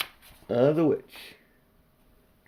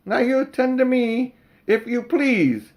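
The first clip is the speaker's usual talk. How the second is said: higher, slow officious bobby; pompous policeman; 12 semitones higher, 6 dB louder than usual. Acted. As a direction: insist on being heard, slowly. Policeman taking statement.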